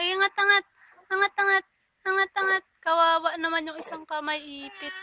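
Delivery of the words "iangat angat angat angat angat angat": eager coaxing. Real, not acted. Coaching baby to lift head.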